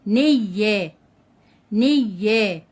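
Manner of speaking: نية said as "ney-ya" with the y doubled; نية slowly, closing on y then releasing "ya". Shown as a demonstration. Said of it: "الياء جاء حرف مشدد".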